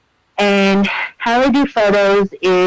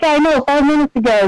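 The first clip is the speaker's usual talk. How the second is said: higher and fast, giddy answer; excited reply; 6 semitones higher, faster than usual. Retold or imitated. Fan answering the voice actor, giddy and fast. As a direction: rattle it off quick and high.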